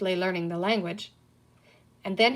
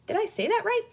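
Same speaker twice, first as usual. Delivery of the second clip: eager question; 12 semitones higher than usual. A narrator's reading. Seeking encouragement.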